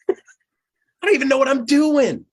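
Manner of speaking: high, loud laughing confession. Real, not acted. Leader laughing at his own doubts, high and loud. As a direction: laugh it out at yourself.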